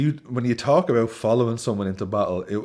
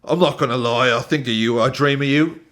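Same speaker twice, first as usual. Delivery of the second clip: louder put-on British recital; generic British accent; 4 semitones higher, 4 dB louder than usual. Host mocking a footballer's love poem, generic British accent. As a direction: repeat the verse in a mock British accent. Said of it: "just gonna do generic British accent".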